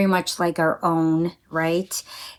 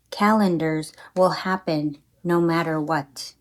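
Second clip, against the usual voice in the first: poetry reading. Acted. Reads her own poem.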